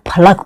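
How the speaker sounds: फलक as "pha-lak"; correct pronunciation. Shown as a demonstration. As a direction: keep the second vowel of फलक short, no "au". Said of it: "इसको ना फलक पढ़ना". (फलक को "फ-लक" बोलें)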